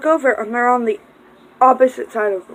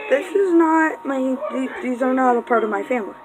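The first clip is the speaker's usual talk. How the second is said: put-on flustered old lady; 2 semitones higher, faster than usual. Old lady denying them, rushed.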